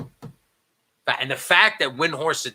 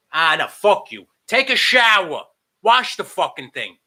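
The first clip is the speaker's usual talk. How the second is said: raised, loud and fed up; indignant rant; 6 semitones higher, 4 dB louder than usual. Real, not acted. Host telling beard-shavers to wash instead, indignant outburst. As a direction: throw it out higher, exasperated.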